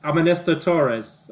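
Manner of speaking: TV newsman character. Acted. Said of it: "And he says".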